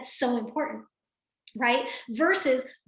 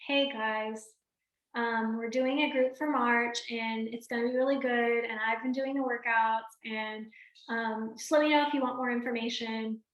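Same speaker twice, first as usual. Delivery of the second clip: softer, listless group invite; flat, unexcited pitch; 4 dB quieter than usual. Retold or imitated. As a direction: read it like a chore. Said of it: "that's totally different".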